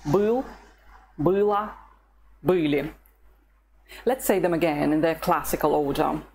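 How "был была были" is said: Был, была, были said clearly one by one, stress as taught; slow Russian demo. Shown as a demonstration. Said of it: "it's on the letter U".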